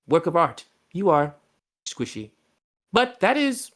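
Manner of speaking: lightly voiced, measured formal speech; courtly host. Host speaking to the frog Tidbit, lightly voiced formality. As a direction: speak down gently to the little frog.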